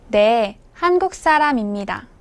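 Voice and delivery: usual speaking voice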